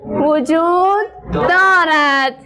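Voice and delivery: slow, word-by-word reading; slow model reading. Shown as a demonstration. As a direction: read it slowly so pupils can follow. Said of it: "همراه من بخوانید شاگردان". (خواندن کلمه به کلمه و آهسته)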